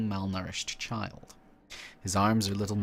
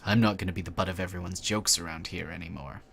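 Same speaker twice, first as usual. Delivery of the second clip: put-on bitter mutant boy. Mutant boy insisting to the stranger he is calm, lightly sarcastic. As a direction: force yourself calm through the sarcasm.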